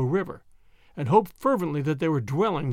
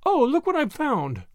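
high, excited-sounding call; 8 semitones higher than usual. A narrator's reading. Miss Drexel calling from the lead, calling out. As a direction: call back about a discovery. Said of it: "Miss Drexel called from the lead".

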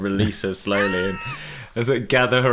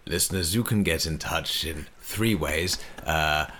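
kindly voice. Pretend. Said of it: "tell the listeners ... in that voice".

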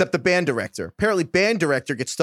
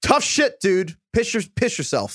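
dismissive; 5 semitones higher than usual. Retold or imitated. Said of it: "and I quote".

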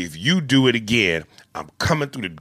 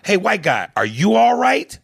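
cop voice; 8 semitones higher, 4 dB louder than usual. Retold or imitated. Acted scene quote.

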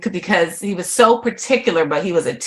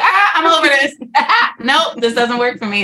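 high, laughing brush-off; laughing dismissal; 7 semitones higher than usual. Retold or imitated. Younger self quitting college, laughing and dismissive. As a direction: toss it away with a giggle.

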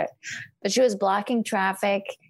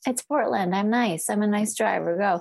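mock nice driver; 2 semitones higher than usual. Mocking polite Portland driver.

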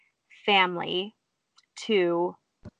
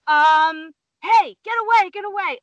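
imitating an alarmed husband, high-pitched; retold worried warning; urgent shooing; 9 semitones higher, 6 dB louder than usual. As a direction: shoo the animal away, starting loud.

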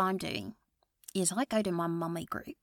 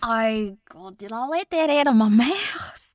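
aghast; 4 semitones higher, 10 dB louder than usual. Acted. Blurting a secret, aghast.

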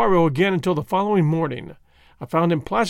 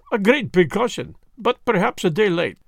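gentle; 4 semitones higher than usual. Acted. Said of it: "suggested Poirot gently".

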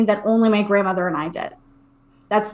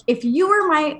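fed-up mom; 2 semitones higher than usual. Retold or imitated. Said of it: "my mom had had enough of this".

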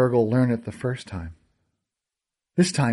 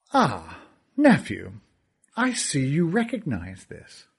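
higher, sneering villain voice; gloating villain; 5 semitones higher than usual. Acted. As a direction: toy with the boy, mock him.

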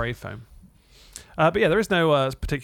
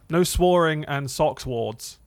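stumbling misreading; 2 semitones higher, much slower than usual. Real, not acted. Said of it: "he can't read".

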